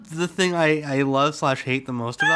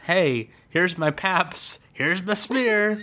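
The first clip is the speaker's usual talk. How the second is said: slow mock Southern man; 3 semitones higher, slower than usual. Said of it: "named the vagina thing after Southern men".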